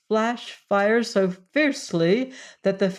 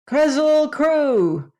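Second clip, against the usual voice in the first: a high, loud, slow call; 10 semitones higher, 6 dB louder, slower than usual. A narrator's reading. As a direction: call it out to make the Woozy angry. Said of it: "Scraps called out".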